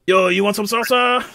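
put-on friendly vendor in Hispanic accent. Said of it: "With the accent".

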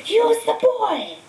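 Voldemort's eerie voice. A narrator's reading. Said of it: "voice seemed to come from Quirrell".

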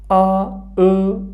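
آ، او، drawn out slowly, each vowel held clearly; vowel demo. Shown as a demonstration. Teacher sounding out Turkish vowels for students, slow and clear. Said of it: "حرف صدادار آخرین هجای واژه".

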